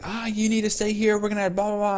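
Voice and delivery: high-pitched mock grandma fretting; high put-on voice, running on into blah-blah; freaking-out grandma. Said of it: "Started freaking out".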